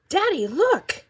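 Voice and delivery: put-on high, loud little-kid call to Dad; gleeful child showing off; excited child. A narrator's reading. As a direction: shout proudly for Dad's attention, high-pitched. Excited child calls to father.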